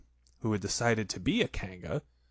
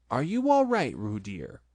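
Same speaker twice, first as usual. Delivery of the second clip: put-on a mother kangaroo checking on her baby; 2 semitones higher than usual.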